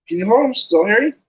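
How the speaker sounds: high, breathless excited questions; eager Colin. Acted. Colin dances alongside, asking eagerly and high. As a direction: pester them eagerly. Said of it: "fascinated, raising his camera".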